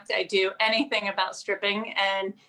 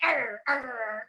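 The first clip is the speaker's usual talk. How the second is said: mock German accent. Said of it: "they have the German accent".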